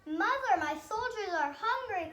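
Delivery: urgent loud call to mother; son crying out. A narrator's reading. Older son calling to his mother over the wall, loud. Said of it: "cried the older son".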